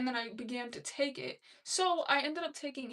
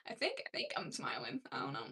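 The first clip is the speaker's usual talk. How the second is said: whispering; 5 dB quieter than usual. Real, not acted. Unsure whether she's smiling.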